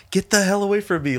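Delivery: a hammed-up, exasperated get away; guarding his tacos from a drunk friend; mock outraged. Speaker retells snapping at friend.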